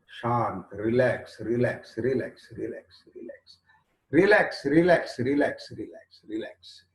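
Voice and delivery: gentle, calming repetition, fading away; soothing calm. Real, not acted. Calming the listener.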